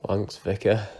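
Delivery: put-on dry sarcastic Yorkshire accent. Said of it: "sarcastically goes".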